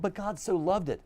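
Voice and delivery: so lifted high and held; emphatic so; stress on so. Acted. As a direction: hit the word so in God so loved it. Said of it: "Not that God so loved the world".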